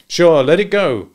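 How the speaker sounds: a lightly voiced young woman, easy and brisk; Marjorie's voice. A narrator's reading. Marjorie agreeing to Nick while fishing.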